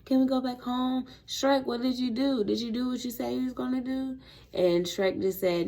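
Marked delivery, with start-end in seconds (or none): 0.0-4.2 lightly voiced fairy creatures, pitched higher; fairy creatures' questions. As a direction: pester with questions in a slightly higher voice. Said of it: "all the fairy creatures was like".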